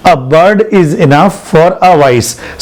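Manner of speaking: slow, spaced teaching read; each word set apart for the class; slow drill. Shown as a demonstration. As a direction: spell the saying out slowly for learners. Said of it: "क्या बोला आपने?".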